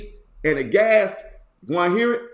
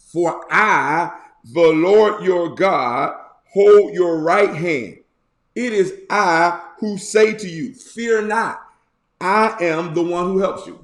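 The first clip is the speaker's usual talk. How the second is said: lifted, louder scripture reading; 4 dB louder than usual. Acted. Preacher reading the psalm aloud, lifted and louder. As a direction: proclaim the psalm to the congregation.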